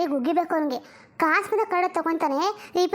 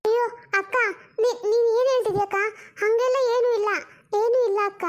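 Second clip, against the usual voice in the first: nervous laugh; 3 semitones higher than usual. Acted. Sister dodging questions nervously.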